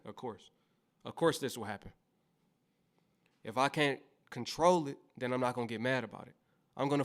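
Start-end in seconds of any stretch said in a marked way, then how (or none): 0.0-1.9 laughing it off. Shown as a demonstration. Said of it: "I will literally say that".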